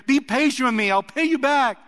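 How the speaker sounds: lightly acted pleading of a desperate servant; begging. A narrator's reading. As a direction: beg from your knees, voice lifted. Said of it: "fell to his knees and begged him".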